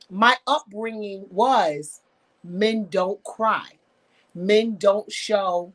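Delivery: each word drawn out slowly and weighed; slow emphasis. Retold or imitated. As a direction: lay it down slowly, word by word, like a rule. Recalling strict upbringing rule.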